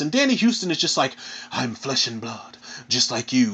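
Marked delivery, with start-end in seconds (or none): 1.5-3.5 mock villain line. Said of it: "delivering the worst fucking villain lines ever".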